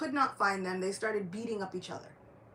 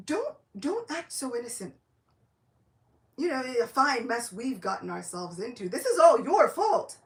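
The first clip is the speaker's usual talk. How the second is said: annoyed scolding; 2 semitones higher, 6 dB louder than usual. Acted. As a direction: blame him, your patience gone. Haridas scolds Nitai.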